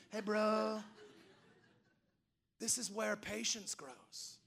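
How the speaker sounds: slow, laid-back California drawl; California bro. Acted. Holy Spirit advises a frazzled parent, in slow Californian. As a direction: draw it out like a chilled Californian dude. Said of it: "he talks like he's from California".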